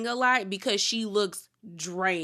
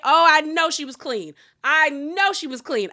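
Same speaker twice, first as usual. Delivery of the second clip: high and loud, gushing; excited hype; 7 semitones higher, 8 dB louder than usual. Real, not acted. Praising Wendy's white outfit to viewers, loud excited hype. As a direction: shout her praise up high.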